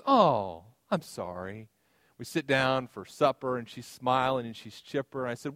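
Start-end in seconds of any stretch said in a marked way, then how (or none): 0.0-1.7 sympathetic. Retold or imitated. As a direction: let the voice drop into gentle mock-sympathy. Wife sympathizing after stressful day.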